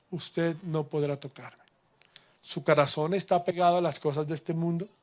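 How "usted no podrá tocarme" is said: quiet repeat. Shown as a demonstration.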